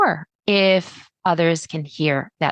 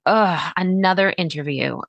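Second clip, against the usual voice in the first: bored groan. Pretend. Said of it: "Maybe you're just like".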